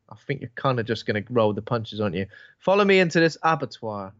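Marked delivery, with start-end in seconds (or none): 2.6-4.1 higher-pitched, lightly voiced lure; imitated seductress. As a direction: coax in a put-on higher voice. Voicing seductress luring man to danger.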